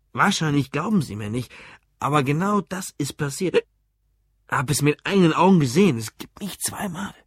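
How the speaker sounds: tipsy man insisting, voice jumping; drunk, insistent. Acted. Drunk customer insists to the barman it happened, tipsy. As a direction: insist on it with mild drunken urgency.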